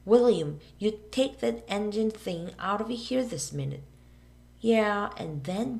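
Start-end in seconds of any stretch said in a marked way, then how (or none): 0.0-3.8 lightly voiced preacher telling him off; reverend scolding. Minister ordering William out of church, mildly stern. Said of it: "he'd cry".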